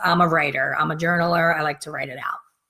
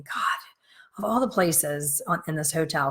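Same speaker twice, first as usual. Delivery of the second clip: whispered inner thought; 6 dB quieter than usual. Retold or imitated. Annoyed inner thought during livestream.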